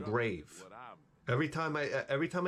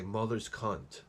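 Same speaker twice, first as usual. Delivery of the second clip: slow curse demo; 3 semitones lower, slower than usual. Shown as a demonstration. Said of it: "That's my thing when I get mad. I say".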